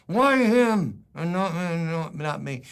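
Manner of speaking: whiny, drawn-out protest tailing into a mumble; jealous mumble. Acted. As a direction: grumble it enviously through a barely open mouth. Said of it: "when you don't open your mouth".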